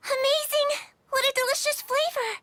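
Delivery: high, loud burst of delight; delighted exclamation. Acted. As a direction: rave about the taste. Tastes mochi, delighted.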